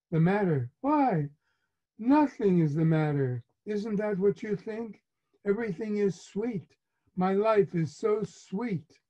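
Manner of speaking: a mother insisting everything is sweet with irony; sarcastic mother. Retold or imitated. Mother answers son sarcastically.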